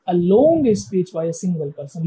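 very slow, word by word, reading a definition; slow dictation. Shown as a demonstration. Teacher reading the textbook definition to students, very slow. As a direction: spell each word out for students to copy. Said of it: "teacher reads definition to class".

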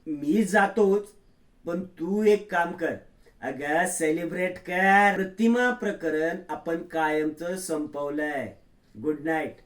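slow, drawn-out sly villain voice; a hint of a gloating schemer, taking his time. Nagraj gloating to Priya as he leaves, slowly.

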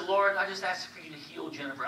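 soft, half-hearted tired prayer; weak prayer. Retold or imitated. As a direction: murmur it like you're too tired to care. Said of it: "it's a very weak prayer".

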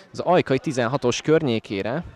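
normal talking voice

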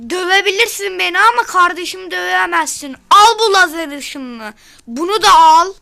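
hammed-up fight taunts; battle shouting. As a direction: blast the enemy with a yell. Brother fights the genie.

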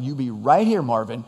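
firm retold instruction, dropping on the name; emphatic order, falling at the end; making it really clear. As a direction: drive the point home. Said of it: "I'm gonna make it really clear".

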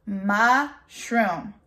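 "Mushroom" broken into two beats, mush, room; split into syllables. Shown as a demonstration. Teacher has children count chin drops, "Mushroom" split in two. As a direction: say "Mushroom" in two separate pieces. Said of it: "let's see how many times".

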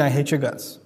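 hostile undertone. Shown as a demonstration. Showing how a word can carry hatred, quiet and cold. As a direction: say it quietly with contempt. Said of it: "the way you say it could mean".

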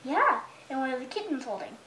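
put-on lively storybook reading to a toddler; mother reading a picture book to her little son; reading to children. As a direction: read it out like bedtime story time.

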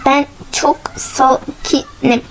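very slow, words broken apart; calm yourself syllable by syllable, half-whispered; self-calming. Real, not acted. Player telling themselves they are calm, slow and deliberate.

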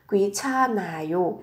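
귀찮아요 stretched out with n opening the third syllable; linked n sound. Shown as a demonstration. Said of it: "Phụ âm n lên sẽ là".

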